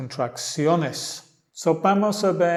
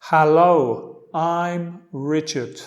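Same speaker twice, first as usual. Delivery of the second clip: slow model line; 3 dB louder, slower than usual. Shown as a demonstration. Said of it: "repite los dos lados después a mí".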